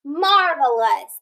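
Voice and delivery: "Marvelous" slow with a light schwa; careful whole word; slow blended read. Shown as a demonstration. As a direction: blend the parts slowly. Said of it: "That E had that schwa sound".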